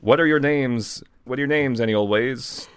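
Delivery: lightly hammed character read; put-on character voice. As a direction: play the strange Rumble voice. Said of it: "Is that how he talks?".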